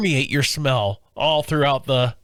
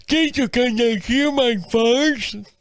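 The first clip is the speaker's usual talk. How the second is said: put-on little kid voice; 5 semitones higher, slower than usual.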